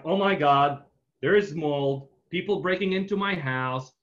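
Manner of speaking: homeowner rattled by the mold, mild mock panic; mild freak-out. Homeowner finding mold in his attic, mock freak-out. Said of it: "And John freaks out".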